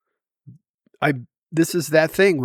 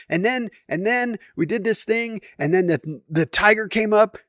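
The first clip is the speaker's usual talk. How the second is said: imitating daughter's zombie voice; 7 semitones higher than usual. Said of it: "still zombie".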